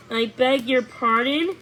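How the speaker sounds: a mild huff of wounded pride; lightly played indignation; huffy. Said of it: "he huffed".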